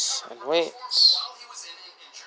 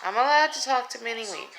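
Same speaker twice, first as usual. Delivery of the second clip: high pet-talk voice; 9 semitones higher, faster than usual. Real, not acted. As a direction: sweet-talk the cat up high. Talking to the cat.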